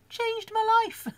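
high-pitched gushing overstatement; hammed-up rapture, laughing after; mock-dramatic exclamation. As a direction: proclaim it like a miracle, voice soaring. Hammed-up praise of sticky labels.

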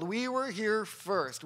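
slow, measured retelling of a handed-down story; recited narrative. Retold or imitated. Speaker quotes the story kids were told, slow recital. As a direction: recite it slowly, without yelling. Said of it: "That's the story they were told".

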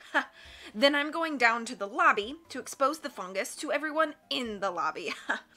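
a hint of a cackling villain, laughing between boasts; lightly voiced villain savoring each step; gloating villain. Villain gloats over his plan.

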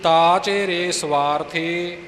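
slow, measured chant of the verse; scripture recitation. Shown as a demonstration. Teacher recites the verse for learners, measured chant. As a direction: recite each word clearly for pupils.

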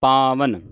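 ਪਾਵਨ ending in a plain dental ਨ; ਪਾਵਨ, clear dental ਨ at the end; ਪਾਵਨ ਵਿੱਚ ਨ. Shown as a demonstration. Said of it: "ਨੰਨੇ ਦੀ ਆਵਾਜ਼ ਉਚਾਰਨ ਹੋਵੇ".

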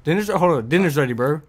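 loud dinner's ready call; yelling. Real, not acted. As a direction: call it out loudly. Relaying uncle's dinner call loudly.

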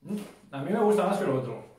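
eating crunchy puffs mid-sentence; talking while chewing. Real, not acted. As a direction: mouth partly full of snack. Seen 0: Puts a puff in his mouth at -2s, then talks while chewing.

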